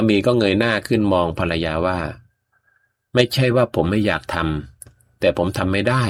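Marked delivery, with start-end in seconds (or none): 2.6-6.0 gentle reply. Acted. Husband answering his wife gently.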